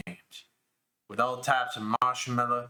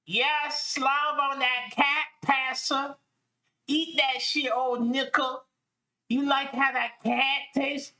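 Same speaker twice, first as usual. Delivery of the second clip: mock sultry voice; 10 semitones higher, slower than usual. Reading erotic story's dialogue aloud, mocking.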